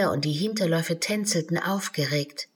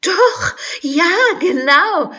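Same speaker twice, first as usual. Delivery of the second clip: very high, bright laughing answer; 11 semitones higher, 9 dB louder, slower than usual. Acted. Alice answers the unicorn, laughing high. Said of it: "lachte Alice".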